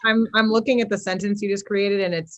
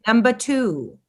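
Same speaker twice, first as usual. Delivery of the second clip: annoying voice. Pretend. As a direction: read it like an annoying, pompous manifesto. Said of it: "read it in this annoying voice".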